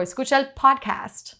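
Spanish phrase with podcast in American English; English-accented podcast. Shown as a demonstration. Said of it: "it just sounds so different".

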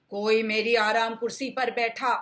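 a loud, angry papa bear; papa bear shouting. Acted. Papa bear shouting that someone sat in his chair. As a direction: bellow it out at the intruder. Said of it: "पापा भालू चिल्लाए".

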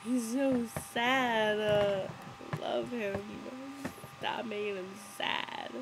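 slow, pitying moan; sympathetic whine. Real, not acted. Feeling sorry for sad Charlie.

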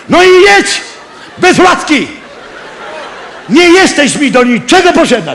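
high, laughing mock yell at the wife. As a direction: yell after her, half laughing. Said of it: "Tak się darłem".

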